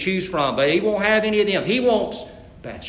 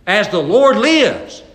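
slow, loud, trembling oath; shaking anger; 3 semitones higher, 6 dB louder, slower than usual. Acted. David swearing an oath against the rich man, slow and furious. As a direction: let the fury shake the words. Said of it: "Can't you imagine David's voice shaking?".

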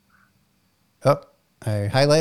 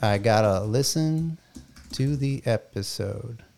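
robot voice; 6 dB quieter, slower than usual. Shown as a demonstration. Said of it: "and it's gonna say".

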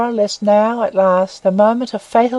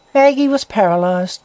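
ordinary delivery

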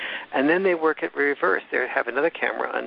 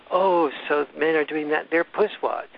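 higher-pitched mock-scornful imitation; mocking interviewer; 4 semitones higher than usual. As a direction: jeer lightly as the interviewer. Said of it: "she'll go".

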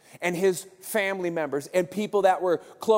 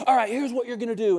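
rousing build-up; 5 semitones higher than usual. Acted. Jesus about to give orders.

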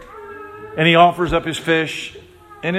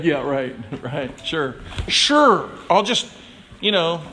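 sarcastic disbelief; slower than usual. Retold or imitated. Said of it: "You'd be like".

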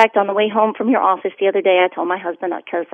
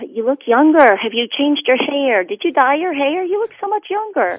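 imitating gushing friend; 6 semitones higher, 3 dB louder than usual. Caller quotes people's compliments.

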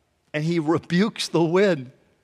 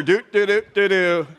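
carefree "doo doo doo"; sing-song doodling to oneself; oblivious humming; 3 semitones higher, 4 dB louder than usual. Retold or imitated. Imitates oblivious person humming along.

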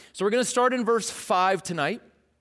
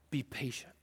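much softer, unbothered; calm reply; 6 semitones lower, 14 dB quieter than usual. Pretend. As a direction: answer quietly, unmoved. James replies calmly.

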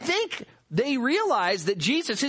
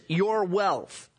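"your" stressed over "wealth". Shown as a demonstration. Preacher noting the son disowns the wealth, stressing "your". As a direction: lean on "your". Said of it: "notice he says".

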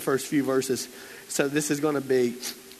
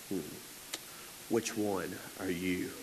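dramatic preacher question; 7 semitones lower, 12 dB quieter, slower than usual. Retold or imitated. Dad's dramatic pulpit question.

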